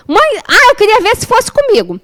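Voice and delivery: high-pitched mock reproach; imitated indignant son. Mother voices her son's text, high indignant reproach. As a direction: throw it at mom like an aggrieved teen.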